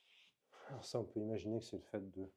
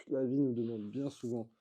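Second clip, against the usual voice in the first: emphatic restatement; 3 semitones higher, 7 dB louder than usual. Real, not acted.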